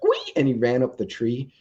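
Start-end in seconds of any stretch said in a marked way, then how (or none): 0.0-0.3 very high mock squeal of a burned raccoon. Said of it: "and he was like".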